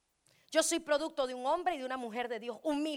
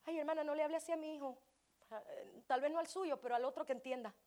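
mock offended parent; 6 dB quieter than usual.

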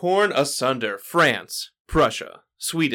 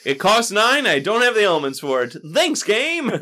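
sarcastic. Retold or imitated. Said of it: "I'm like".

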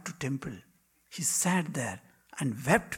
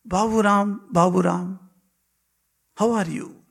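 higher, louder fond calling of a name; loving call; 4 semitones higher, 8 dB louder than usual. Acted. Master calling his disciple Babu Ram in a dream, loving and raised. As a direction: call him lovingly, like a dear son. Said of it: "very lovingly said".

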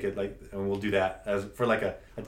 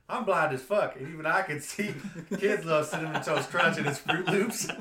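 lightly put-on accent, laughing through it; a singer; 5 semitones higher than usual. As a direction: joke accent, higher pitch, close to laughing. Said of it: "I don't know why I did that accent for a singer".

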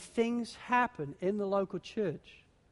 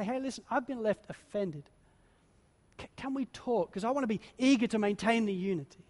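gentle appeal; 3 dB quieter than usual. Retold or imitated. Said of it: "you talk to them and say".

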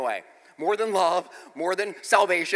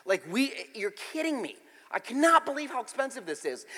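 muttered despair; 6 dB quieter than usual. Retold or imitated. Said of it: "I think to myself".

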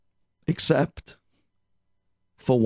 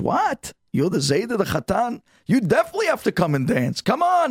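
shocked insisting; 9 semitones higher than usual. Acted. Hasid stunned to learn the old man is the groom's grandfather, then insisting. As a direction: shriek what, then drag him along.

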